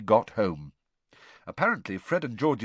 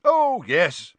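hearty, high and loud; jovial official, beaming; cheerful Bagman; 10 semitones higher, 8 dB louder than usual. Acted. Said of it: "Bagman said cheerfully".

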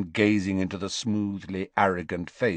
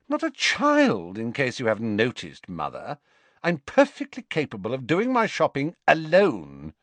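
put-on haughty teenage Draco; 5 semitones higher than usual. Draco snaps at his mother.

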